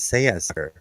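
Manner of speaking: low-pitched British rendering, "Say a sucker"; lightly put-on British "Say a sucker", r's dropped; British accent. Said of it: "Captain Peacock with his British accent. He says".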